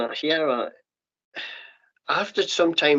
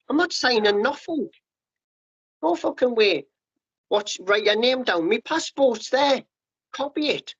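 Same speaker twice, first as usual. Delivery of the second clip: retold defiant refusal; 7 semitones higher than usual.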